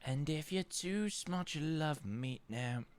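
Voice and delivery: words stretched by a yawn; slow, soft yawning speech. Real, not acted. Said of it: "Tired, yeah, I am".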